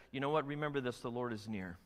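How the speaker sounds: softening, confiding voice; quiet reminder. Retold or imitated. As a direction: lean in and say it gently. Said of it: "but he says".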